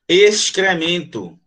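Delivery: "Excremento" said slowly with the X and the C both sounded; "Excremento" drawn out, ex-cre-men-to; slow syllable demo. Shown as a demonstration. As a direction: stretch out "Excremento" for the class. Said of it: "você pronuncia o X e pronuncia o C".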